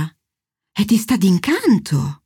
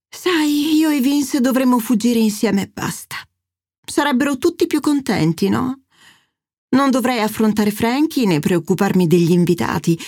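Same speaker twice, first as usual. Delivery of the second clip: a hint of a theatrical mother playing the martyr; dramatic mother; 2 semitones higher than usual. Narrator voices the mother Angela.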